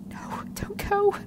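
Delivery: soft unvoiced whisper, slow; whispered plea. Stranded woman whispering to the fading radio. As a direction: breathe it out desperately.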